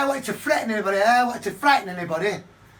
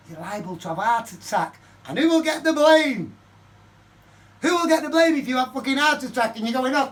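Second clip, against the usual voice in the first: retold rant. His rant at the old man.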